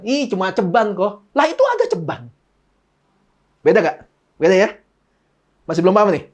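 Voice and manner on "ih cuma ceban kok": slow pouty brush-off; whiny dismissive Novi. Retold or imitated. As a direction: say it with a pout. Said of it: "Novi bilang gitu kan".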